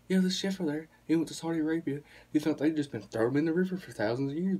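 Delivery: Ron White. Retold or imitated. Retelling a comedian's chef story, animated stand-up impression. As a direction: tell it like a comic's routine. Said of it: "He goes".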